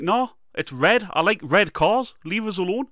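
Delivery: like a bored know-nothing; dismissive. Retold or imitated. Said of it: "and I'm like".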